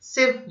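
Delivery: सिप isolated as one syllable; सिप set apart as the third syllable; single syllable. Shown as a demonstration. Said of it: "जुबान की एक हरकत से अदा करता हूँ".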